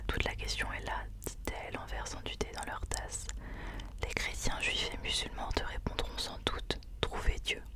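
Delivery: reading a passage in a whisper. Real, not acted. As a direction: read the passage aloud, whispered. Reads book passage aloud.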